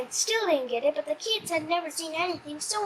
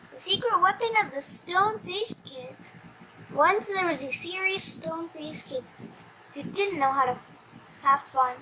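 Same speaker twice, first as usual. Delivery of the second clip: plain reading voice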